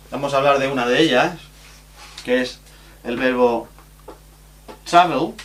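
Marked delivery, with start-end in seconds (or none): 4.8-5.3 travel, stressed on TRA; stress on first syllable. Shown as a demonstration. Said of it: "recae en la primera y no en la última".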